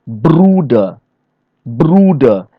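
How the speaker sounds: "Bruder" with a long first syllable, falling away; first-syllable stress. Shown as a demonstration. Trainer showing learners German examples, first-syllable stress. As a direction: lean on the BRU of "Bruder". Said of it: "we give stress to the first syllable".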